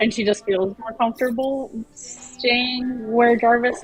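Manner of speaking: normal talking voice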